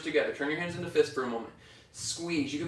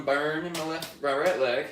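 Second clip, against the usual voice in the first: Southern accent; 3 semitones higher than usual. Real, not acted. Yoga teacher feeling the burn mid-pose, slipping into a Southern accent. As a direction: slip into a Southern twang. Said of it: "I got real southern on that".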